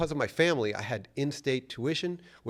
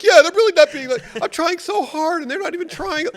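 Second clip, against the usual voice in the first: mock earnest goody-goody; 14 dB louder than usual. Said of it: "And I'd play along and be like".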